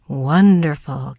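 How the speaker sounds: slow, loud amazed wonderful; an old farmer stunned by the linen; gasped in wonder. Acted. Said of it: "gasped the farmer".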